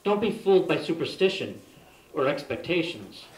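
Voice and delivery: measured recital of a warning; poem reading. Real, not acted. Poet reads vampire poem as a source of warning, measured recital. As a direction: read it out to warn the listeners.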